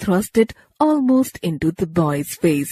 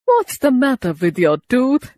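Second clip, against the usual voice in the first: higher, sharp aunt questioning; stern old lady; 6 semitones higher, 3 dB louder than usual. A narrator's reading. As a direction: demand an answer.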